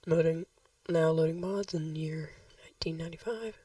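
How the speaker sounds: soft whispered read-out; whispering. Real, not acted. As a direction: whisper the loading screen text. Reading the game's loading screen.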